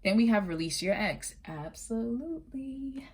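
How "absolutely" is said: high, slow, drawn-out dramatic flourish; soft, high-pitched melodramatic drawl. Real, not acted. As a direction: stretch it out theatrically, high and soft. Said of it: "I'm a little dramatic right now".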